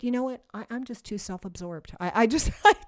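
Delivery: a pretend confession, whined high and loud with a laugh; mock entitled whine. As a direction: play the spoiled self-absorbed believer, over the top. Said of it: "what if we just said".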